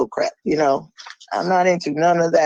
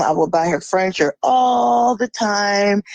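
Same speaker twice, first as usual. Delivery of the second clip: mock whining man; 2 semitones higher than usual. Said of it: "He would go off and say".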